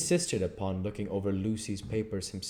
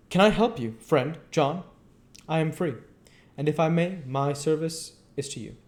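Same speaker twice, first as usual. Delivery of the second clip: higher voiced, earnest foreign professor; foreign old professor; 9 semitones higher, 5 dB louder than usual. Professor explains to his colleague why he checks papers, higher and earnest. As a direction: speak as the learned foreigner, insistent.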